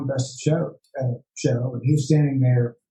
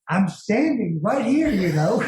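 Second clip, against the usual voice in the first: deadpan reply; 7 semitones higher, slower than usual. Retold or imitated. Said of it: "I just looked at him and said".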